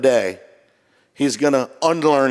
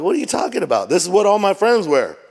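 higher-pitched mock indignation; retold protest; 5 semitones higher than usual. Son defending his shoes to dad, retold protest. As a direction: imitate a kid arguing back. Acts himself as protesting kid.

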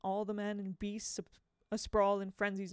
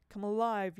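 yelling; 6 dB louder than usual. Acted. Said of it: "yelled Mister Dark's mouth".

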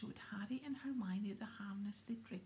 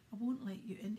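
puffing; 5 dB louder than usual. Acted. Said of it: "he puffed".

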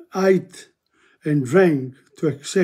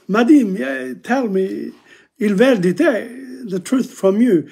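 raised, pressing voice; eager acted plea; 5 semitones higher than usual. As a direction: pleads eagerly to know the truth. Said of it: "he says".

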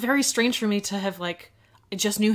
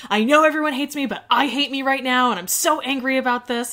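upset wrestler; 4 semitones higher, 5 dB louder than usual. Retold or imitated. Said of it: "he was like".

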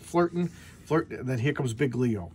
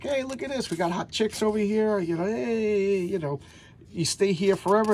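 tempting archangel; 7 semitones higher than usual. Retold or imitated. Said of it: "this archangel's like".

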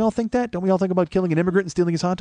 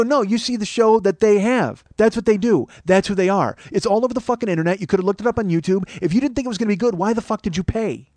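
retold heated telling-off, pitched up; indignant rebuttal, higher than usual; chewing someone out; 6 semitones higher than usual. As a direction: argue him down, exasperated. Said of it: "I'm chewing out this fucking guy".

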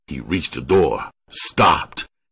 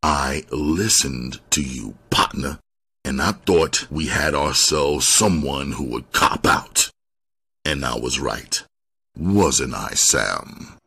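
lower, restrained threatening tone; low-keyed threat; 3 semitones lower than usual. Acted. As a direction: threat sinking lower toward the end. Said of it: "low-keyed yet threatening tone".

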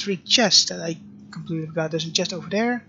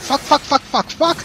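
loud, high frustrated cursing; real rage at the game; furious swearing; 7 semitones higher, 4 dB louder than usual. Real, not acted. Boss fight frustration, repeated swearing.

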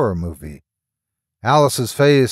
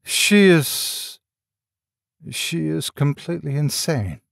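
slow and clear; 3 semitones higher than usual. A narrator's reading. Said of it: "David said slowly and clearly".

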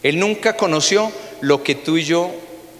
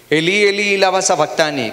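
higher, louder anguished call; cry out; 5 semitones higher, 4 dB louder than usual. Retold or imitated. A pastor voicing Jesus on the cross, crying out. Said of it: "Jesús grita con fuerza".

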